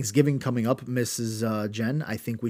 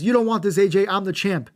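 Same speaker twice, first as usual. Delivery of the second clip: higher, louder, cocky wrestler taunt; mock champ taunt; 8 semitones higher, 5 dB louder than usual. Host retelling champion taunting the challenger, loud mock. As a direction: sneer it at the challenger. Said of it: "Roode says".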